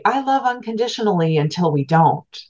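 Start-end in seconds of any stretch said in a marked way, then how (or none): 0.0-1.4 a higher, faster, gently mocking take on a pious pledge; lightly lilting mock declaration of love; mock sincere vow. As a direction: parrot the sweet promise people make, a little ironically. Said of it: "we say".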